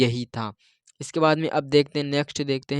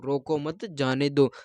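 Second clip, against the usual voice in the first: quieter रोको मत as one group, then जाने दो; pause after मत; 4 dB quieter, slower than usual. Shown as a demonstration. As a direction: keep मत tied to रोको, with जाने दो separate. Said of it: "कुछ और ही सुन लिया कि".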